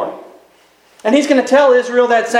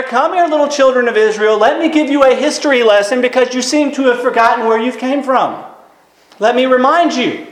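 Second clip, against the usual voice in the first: put-on raised-pitch talking down to children; patronizing; 4 semitones higher than usual. Elijah gathers forgetful Israel for a history lesson, patronizing. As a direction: lecture grown people as little ones.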